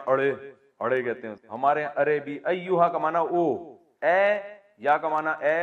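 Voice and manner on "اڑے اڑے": Lyari dialect. Retold or imitated. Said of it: "Lyari کی زبان میں".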